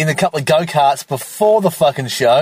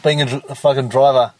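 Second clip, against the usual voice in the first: stumbling, stuttering over the word; 3 semitones lower than usual. Real, not acted. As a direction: trip over the word driver. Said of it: "I'm fucking stuttering".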